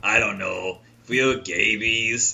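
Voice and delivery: slow, put-on lilting plea; lilting comic voice. Host voices the SNL character's plea, lilting. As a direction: coax it out slowly, sing-song. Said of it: "and he goes".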